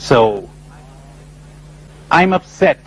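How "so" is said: normal talking voice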